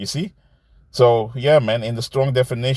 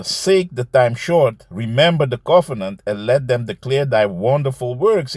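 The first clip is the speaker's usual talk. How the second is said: scripture reading. Acted. Reads Sirach aloud.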